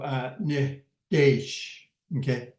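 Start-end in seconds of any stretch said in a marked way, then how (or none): 0.4-1.7 nitesh drawn out slowly with falling end; slow model word. Shown as a demonstration. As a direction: stretch out nitesh for learners. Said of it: "it changes from, uh, animush to".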